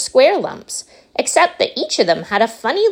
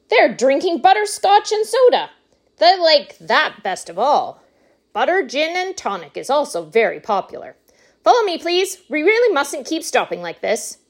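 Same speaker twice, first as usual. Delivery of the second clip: high, animated showman patter; exuberant Wonka; 8 semitones higher than usual. Acted. Wonka shows visitors along the corridor, high and exuberant. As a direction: chatter it high, then hurry them along.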